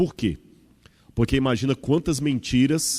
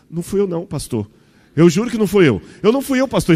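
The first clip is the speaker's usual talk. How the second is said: put-on high, loud, panicky child denying it; a small boy swearing he didn't do it; boy pleading innocence to the new pastor, high and frantic; scared little boy; 8 semitones higher, 6 dB louder than usual. Frightened boy voiced in anecdote.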